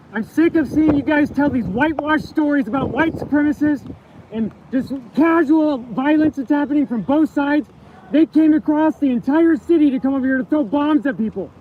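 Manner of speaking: angrily accusing, voice pushed loud; angry. Real, not acted. Confronting news crew, raised voice.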